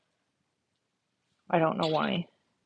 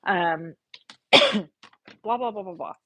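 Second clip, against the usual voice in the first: higher, accusing, mildly indignant; mock angry emailer; 4 semitones higher than usual. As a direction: needle her like the annoyed emailer. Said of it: "kind of angry at me".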